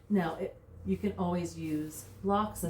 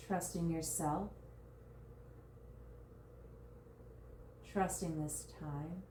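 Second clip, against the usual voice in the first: guided meditation. Real, not acted. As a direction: guide them gently into surrender, drawing out key words. Leads a body scan meditation.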